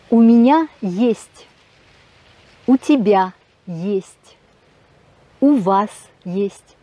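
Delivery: slow, carefully spaced "у меня есть"; slow model pronunciation. Shown as a demonstration. Teacher modelling "у меня есть" for French learners, slow and clear. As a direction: spell each phrase out slowly. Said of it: "vous savez maintenant dire".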